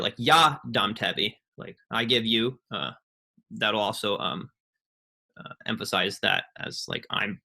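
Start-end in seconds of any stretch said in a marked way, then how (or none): 0.2-1.3 ya dam tebi with ya pushed forward; stress on ya. Shown as a demonstration. Teacher showing the class stress on ya. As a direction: lean on ya to mark I as the giver. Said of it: "emphasize the first word".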